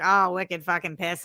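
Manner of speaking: put-on quick Boston accent warm-up line. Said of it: "when I wanna do a Boston accent".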